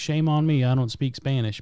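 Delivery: normal talking voice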